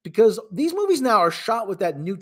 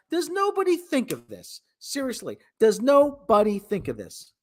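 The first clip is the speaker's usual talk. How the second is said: exasperated; 4 semitones higher than usual. Real, not acted. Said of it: "exasperated rant".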